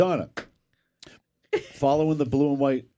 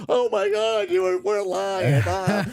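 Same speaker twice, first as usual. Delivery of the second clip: excited; 10 semitones higher, 5 dB louder, slower than usual. Retold or imitated. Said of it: "the phone's popping off".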